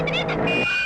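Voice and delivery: loud call, stop that scooter. Acted. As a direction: shout him to a halt. Policewoman calls out to stop scooter. (நிறுத்த உரக்க கூப்பிடுதல்)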